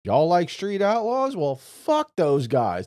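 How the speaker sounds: high, loud, drawn-out taunt; hammed-up defiant tirade; mock fit of anger. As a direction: act out a spiteful daughter taking aim. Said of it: "just in a fit of anger".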